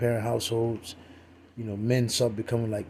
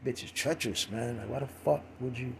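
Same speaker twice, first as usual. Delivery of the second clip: clownish dude; 8 dB quieter than usual. Retold or imitated. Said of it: "this dude sound like a straight clown".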